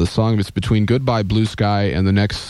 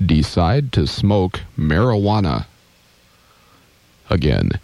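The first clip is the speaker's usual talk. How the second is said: slow spooky reading; 2 semitones lower, slower than usual. Retold or imitated. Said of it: "This one supposedly says".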